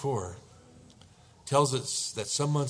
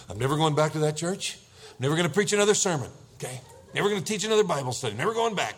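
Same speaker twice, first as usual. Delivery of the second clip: ranting husband; 3 semitones higher, 4 dB louder, faster than usual. Acted. Acted ranting husband whom wife calms.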